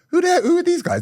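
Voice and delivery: mock surprise. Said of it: "you think".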